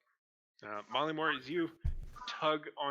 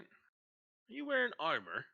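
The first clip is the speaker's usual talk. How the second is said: suspicious guard; 8 semitones higher, slower than usual. Acted.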